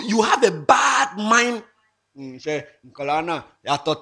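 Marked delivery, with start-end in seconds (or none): 0.0-1.6 slow, shouted reproach; emphatic shout. Real, not acted. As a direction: hammer it home slowly. Lecturing about envy.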